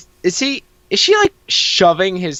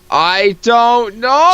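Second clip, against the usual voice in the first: higher and slower, a baffled cry; exasperated exclamation; 8 semitones higher, 5 dB louder, much slower than usual. Real, not acted. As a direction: throw up your hands in confusion. Reacting to the weird legs.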